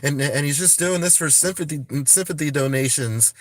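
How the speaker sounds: imitating trolls crying fake; mocking the trolls. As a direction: parrot the skeptics dismissively. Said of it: "the trolls are out there trying to say".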